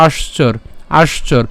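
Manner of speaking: আশ্চর ending on a bare r; partial-word demonstration. Shown as a demonstration. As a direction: say আশ্চর as "aash-chor", stopping at r. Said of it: "সেটা কেমন হচ্ছে". (আশ্চর, শেষে র হসন্তর মতো)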